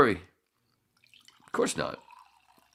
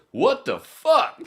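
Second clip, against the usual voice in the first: shocked outrage; 12 semitones higher, 11 dB louder, much slower than usual. Retold or imitated. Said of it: "True goes".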